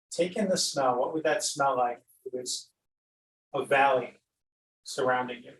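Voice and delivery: unhurried meditation guide with long pauses; guided meditation. Acted. Teacher guiding listeners to glide over an imagined valley, unhurried meditation voice. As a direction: lead them gently through the imagery, leaving space between phrases.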